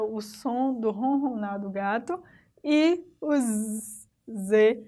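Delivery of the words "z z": "z" drawn out into a long buzz; sleeping Z sound. Shown as a demonstration. Teacher showing the poem's sleep symbol, drawn-out buzz. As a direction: hold the "z" long, like cartoon snoring letters. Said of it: "que indica que, alguém está dormindo".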